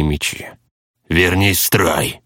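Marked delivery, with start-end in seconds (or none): 1.1-2.2 slow rasping order; hoarse growl. Acted. A tank rasping at the deserter to rejoin, hoarse. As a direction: rasp the command out, slowly. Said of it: "прохрипел один из них".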